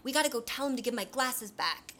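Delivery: lightly acted plucky appeal; Piggy. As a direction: imitate a boy rallying his friends. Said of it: "he, like, creates this great speech".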